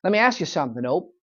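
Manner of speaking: imitating a cocky brat, rising high and loud; mock-challenge like a spoiled kid; bratty kid. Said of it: "the bratty kid goes".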